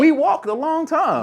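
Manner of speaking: very high, loud laughing words; husband defending his story, cracking up. Real, not acted. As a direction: push the line out through laughter. Both laughing and talking over each other.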